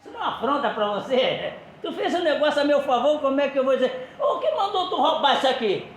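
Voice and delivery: high, amused scolding with laughter; laughing question. Retold or imitated. Jesus questioning Peter with a laugh. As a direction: tease him while laughing.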